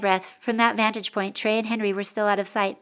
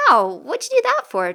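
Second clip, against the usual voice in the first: loud yelp, jumping high in pitch; yelp, then complain in indignation; pained protest; 8 semitones higher, 6 dB louder than usual. A narrator's reading. Boy whacked on the head.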